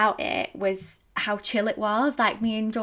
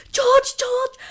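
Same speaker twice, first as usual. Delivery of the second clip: high, loud urgent call; calling George; 8 dB louder than usual. Retold or imitated. Calling George when the bird pooed, high and loud. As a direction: call out to him in a panic. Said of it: "I was like".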